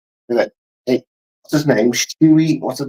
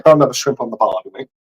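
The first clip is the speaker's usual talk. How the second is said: put-on Australian accent, lightly done; attempted Australian accent. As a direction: say it like a mock Australian. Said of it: "the Australian doesn't sound like".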